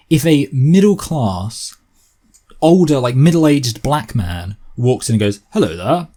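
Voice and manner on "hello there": polite, posh English greeting; posh English accent. Acted. Middle-class man walking into court, posh English accent. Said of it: "maybe this is a bit too posh".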